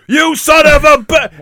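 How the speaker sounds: high, slow, drawn-out angry cry; mock yell. Man picked up by the hawk, mock yelling. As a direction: yell it as you're carried away.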